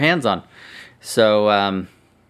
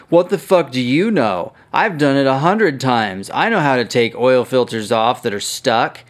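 mock indignant retort, a little higher; 3 semitones higher, 3 dB louder than usual. Imitating a commenter's indignant reply to the host. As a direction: retell his huffy comeback, half-hammed. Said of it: "the fucking guy got indignant".

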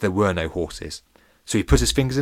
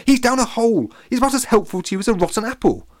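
bully's shout; 14 semitones higher, 6 dB louder than usual. Acted. Splits keeps shouting at Pete.

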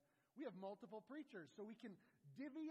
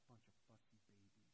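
very soft, low grumble; imagined muttered aside, much lower and softer; mumbled under the breath; 9 semitones lower, 15 dB quieter than usual. Retold or imitated. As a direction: mutter it aside, barely voiced. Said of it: "mumbled under his breath after that".

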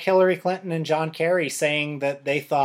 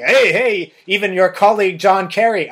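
mock Russian accent, pitched up and louder; a light Russian accent, raised and punchy; 5 semitones higher, 5 dB louder than usual. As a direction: ham up a Russian propaganda voice. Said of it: "I'm speaking in, like, a Russian accent".

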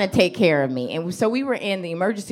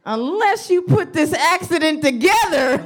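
high-pitched suspicious disbelief; hammed-up accusing astonishment, pitch way up; mock incredulity; 9 semitones higher than usual. Comedian questioning the girl's fast arrival, mock incredulous.

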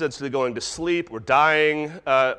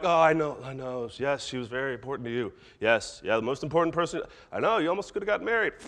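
humouring parent; faster than usual. Acted. Parent to kid after a breakup, humouring sympathy. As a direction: play along with lightly exaggerated comfort.

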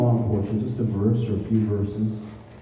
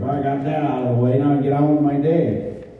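brisk, slightly higher mock-relieved quote; mock dismissive; 4 semitones higher than usual. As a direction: rattle it off as a chore ticked off. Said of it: "Not just a quiet time where you're like".

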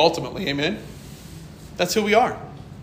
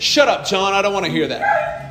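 mock rude snap; 2 semitones higher than usual. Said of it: "you think that would have gone well".

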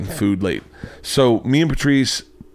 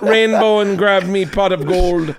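high, slow cartoon leprechaun Irish; hammy Lucky Charms leprechaun; leprechaun Irish accent; 9 semitones higher, 3 dB louder, slower than usual. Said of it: "Irish accent from the Lucky Charms adverts".

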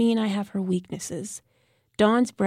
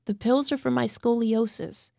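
whining; 4 semitones higher than usual. Acted. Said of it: "Lenora whined".

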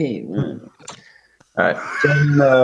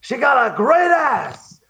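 goofy voice. Retold or imitated. Goofy voiced quote in letter.

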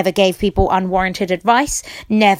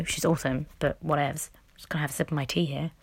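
quick soft whisper aside; 4 semitones lower, 10 dB quieter, faster than usual. Real, not acted. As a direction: toss it off in a whisper.

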